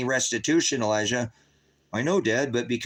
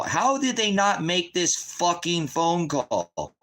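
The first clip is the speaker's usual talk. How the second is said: exasperated; 5 semitones higher, much slower than usual. Real, not acted. Father ranting about probation.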